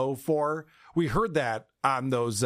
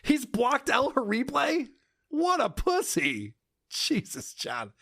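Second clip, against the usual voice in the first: mocking disbelief; 9 semitones higher, slower than usual. Real, not acted. Mocking John's blocking.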